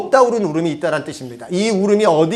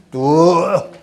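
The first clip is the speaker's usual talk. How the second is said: stern parent's order; 4 dB louder, much slower than usual. Retold or imitated. Parent stopping child's crying.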